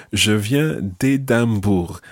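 D glued onto "Édimbourg", no E between; run-in elision. Shown as a demonstration. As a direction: slowly demonstrate "d'Édimbourg" as one word. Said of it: "as I was saying this".

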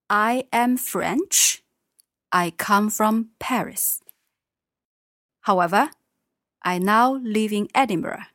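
slow, deliberate model sentences; slow careful sentences. Shown as a demonstration. Teacher modelling sentences slowly for Mark. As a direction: speak each word clearly for the learner. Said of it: "Okay, Mark, one more".

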